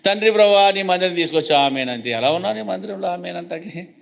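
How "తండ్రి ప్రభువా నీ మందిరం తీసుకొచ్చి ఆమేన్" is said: careless prayer. Retold or imitated. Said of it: "అలుసు అంటే".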